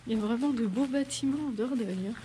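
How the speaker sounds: hiccuping while talking; suppressing hiccups. Real, not acted. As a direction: speak through hiccups. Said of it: "j'ai le hoquet".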